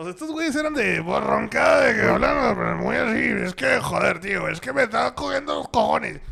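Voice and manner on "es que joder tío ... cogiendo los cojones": put-on louder Spain Spanish accent; Valencian Spanish accent. Mimicking his Spanish friends from Valencia, Spain accent. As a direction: talk like a loud Valencian friend. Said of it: "eso es como valenciano".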